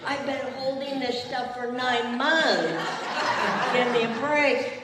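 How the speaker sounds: laughing while speaking, a little overcome; words spilling out between laughs; laughing through it. Real, not acted. Pastor laughing to the congregation, half overcome, laughing.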